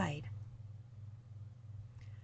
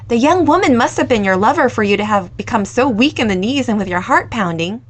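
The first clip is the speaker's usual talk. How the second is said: put-on curious young woman; 9 dB louder than usual.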